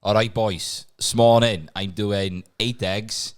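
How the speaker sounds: put-on slow, deliberate Welsh accent; Welsh accent impression. Friend having a go at the fitness guy, Welsh accent. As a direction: pick out each phrase in put-on Welsh. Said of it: "Go on, you do it".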